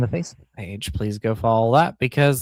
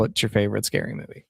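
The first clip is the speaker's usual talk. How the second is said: lofi sound chip; 6 semitones lower, faster than usual. Real, not acted. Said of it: "It says".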